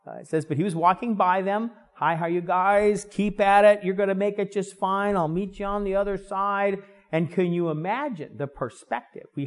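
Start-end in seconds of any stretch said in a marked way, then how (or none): 2.0-6.8 cheery passing hello, pitch held up; encouraging hello. Acted. Jesus greets the rowers as he walks by, encouraging. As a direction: lightly call out encouragement as you pass. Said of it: "said hello to encourage them".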